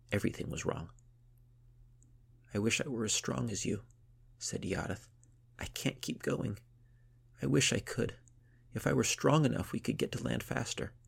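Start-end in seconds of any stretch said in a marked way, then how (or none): 2.5-10.9 put-on slightly higher, pleading young girl; a tired girl wishing she were stronger; a hint of a weary young girl; lightly voiced young girl. Iareth speaks, high girl voice.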